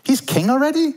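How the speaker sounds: catching up, half amused; dawning realization. Retold or imitated. Mocking own brain realizing Charles is already king. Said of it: "this is literally my brain".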